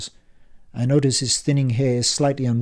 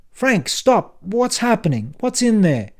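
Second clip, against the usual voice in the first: much higher urgent calling out; alarmed plea; 10 semitones higher, 6 dB louder, slower than usual. Acted. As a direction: beg him to stop. Dan pleads in alarm.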